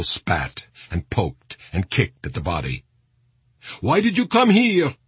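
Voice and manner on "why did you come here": high, raised cry of outrage; screaming woman. A narrator's reading. Woman in the mob at the body, screaming. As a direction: voice a woman screaming, pitched well up. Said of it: "screamed one woman".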